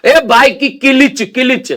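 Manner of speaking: किलिच said slowly as "ki-lich" with a vowel between the k and the l; local pronunciation. Shown as a demonstration. Mimicking a local friend asking about the bike's किलिच, said "ki-lich". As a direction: drag out किलिच, "ki-lich", for clutch. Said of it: "किलिच होता है".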